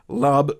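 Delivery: LUB said alone as the middle piece of syllable; isolated syllable. Shown as a demonstration. Teacher breaking the word syllable apart, lub isolated. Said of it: "as the other syllable".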